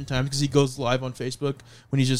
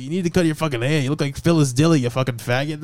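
put-on drunk uncle roasting; 3 dB louder than usual. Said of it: "he just fucking starts roasting me".

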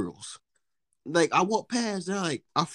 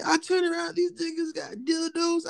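ordinary talk, nothing marked

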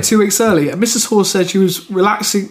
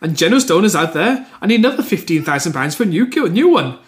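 shaky amateur Welsh accent impression; attempted Welsh accent. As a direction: have a go at a Welsh accent and miss. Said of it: "Could you do these in a Welsh accent?".

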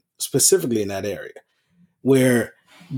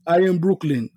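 lightly mimicked friend, pitched up; higher-voiced teasing imitation of a friend's boast; imitating Gus; 5 semitones higher than usual. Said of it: "He says it all the time".

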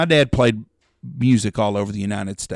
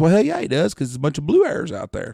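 teasing high jab; 6 semitones higher than usual. Retold or imitated.

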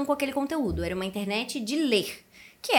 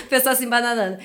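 laughing; 4 dB louder, faster than usual. Real, not acted. Laughing at own stumble.

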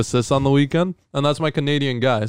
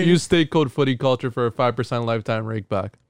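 ad read voice. Shown as a demonstration. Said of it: "you don't sound like that in real life".

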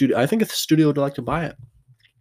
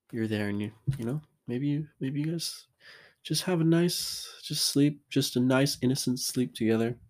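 suggestive hush; 3 semitones higher, 6 dB quieter than usual. Acted. Suggestive hushed hint to listeners.

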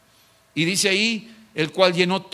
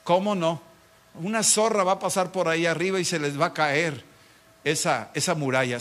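mocking. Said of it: "Se burlaban de Nehemías".

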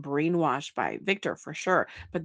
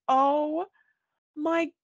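sympathetic gush; 11 semitones higher, 6 dB louder, much slower than usual. Retold or imitated. Quoting her sympathetic reaction.

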